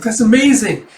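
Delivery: high, loud delighted exclamation; acted thrilled shout; amazed cheer. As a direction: gush at the sword move. Onlookers cheer the rescuer.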